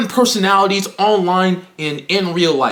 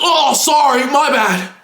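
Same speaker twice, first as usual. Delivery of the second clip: mock apology; 5 semitones higher than usual. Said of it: "He's like".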